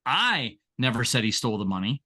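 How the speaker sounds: I punched, rising end; I said with weight, the rest light; stress on I. Shown as a demonstration. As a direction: lean on the word I. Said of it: "I can say these seven words".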